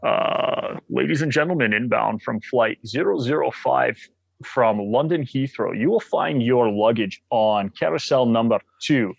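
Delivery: Scottish Sean Connery impression, lightly done; a playful Connery-style Scottish lilt on the announcement; Sean Connery accent. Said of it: "I would do a Sean Connery accent".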